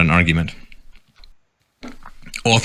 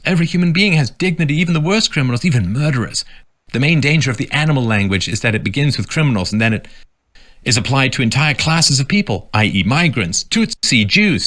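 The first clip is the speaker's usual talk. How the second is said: quote of priest; 4 semitones higher than usual. Retold or imitated. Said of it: "Jesuit priest James Martin said".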